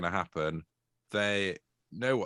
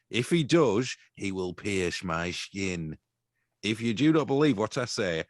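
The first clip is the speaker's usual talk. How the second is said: sing-song mummers' rhyme in a put-on accent; Turkish Knight's accent. Turkish Knight introduces Saint George's arrival, best put-on accent. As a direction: declaim each couplet in a hammy Turkish Knight accent. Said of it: "I'm gonna do my best accent".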